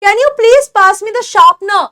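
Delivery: sharpener said slowly without the final r; slow British request. Shown as a demonstration. Teacher playing a student asking politely. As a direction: ask slowly, dropping the end r. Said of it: "जैसे मैं कहती हूँ".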